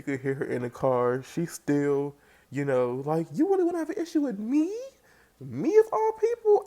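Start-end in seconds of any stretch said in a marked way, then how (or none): 3.3-6.6 much higher and louder, a fast imitated rant; mock angry yell. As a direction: yell it up, hammed-up outrage. Angel Love yelling in the car.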